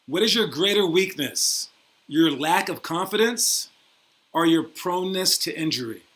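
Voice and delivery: slow, weighty mock-serious question. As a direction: ask it slowly like a grave interviewer. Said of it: "your one serious question".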